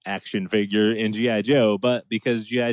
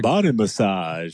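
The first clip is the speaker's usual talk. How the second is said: silly dubbed voice. Retold or imitated. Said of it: "they add in different voices".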